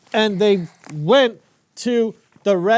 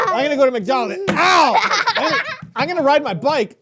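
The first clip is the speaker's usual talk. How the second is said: higher, hammed-up daft voice; silly Pharaoh; 6 semitones higher than usual. Uncle acting a clumsy Pharaoh for a child, silly. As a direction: play the bumbling king for laughs.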